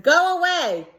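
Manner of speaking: high, put-on dragon voice, brushing her off; grumpy dragon. Dragon dismissing Elizabeth at his door, high put-on voice. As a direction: shoo her away like a busy dragon.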